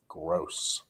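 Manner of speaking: breathy disgusted whisper; whispered gross. Real, not acted.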